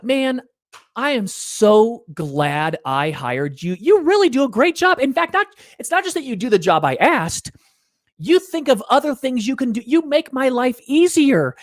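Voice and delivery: enthusiastic praising boss. Retold or imitated. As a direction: lift the voice, gushing over an employee. Acted praising boss quote.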